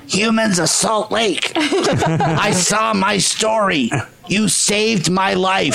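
high, slow, joyful called-out greeting. Retold or imitated. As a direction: call out across the street, overjoyed and laughing. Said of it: "she yelled out".

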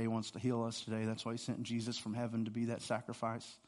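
soft, low intimate sermon voice; hushed preaching. Real, not acted. Pastor quietly walking through Isaiah's vision, hushed. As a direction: draw them close with a hush.

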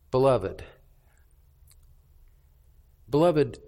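mean every word of it; sincere. Real, not acted. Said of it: "I'm sincere when I say that".

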